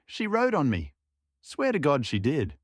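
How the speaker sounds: high, insistent tipsy swearing; swearing tipsy Cossack. Acted. Tipsy Dorosh swears to the others the witch rode him, high and insistent. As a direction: swear it's true, wide-eyed.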